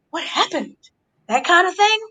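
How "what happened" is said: mock gasp, then a hushed question; extra shocked. Fan acts out playing the innocent one, mock shocked. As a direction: play innocent with an exaggerated gasp. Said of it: "like, extra shocked".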